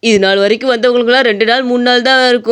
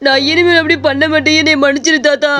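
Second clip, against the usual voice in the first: frightened pleading; 4 semitones higher than usual. Acted. Shopkeeper begs the ghost.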